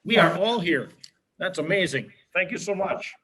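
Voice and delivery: muffled behind a face mask; words dampened by a mask; talking through a mask. Real, not acted. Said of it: "can you hear me with the mask okay".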